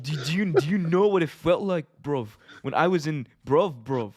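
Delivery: imitating Ospreay's British accent, a little laughing; hammed-up British bruv talk; mock British accent. Still mocking Ospreay's British accent for the co-host.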